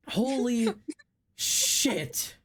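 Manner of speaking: slow, stunned laugh through it; laughing disbelief. Real, not acted. Stunned by the huge album.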